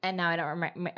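talking around a retainer; words slurred by Invisalign; wearing Invisalign. Real, not acted. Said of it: "It's my Invisalign that I'm wearing".

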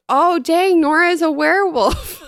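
high, loud excited realization; surprised gasp. Retold or imitated. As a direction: squeal it like a shocked discovery. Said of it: "and I was like".

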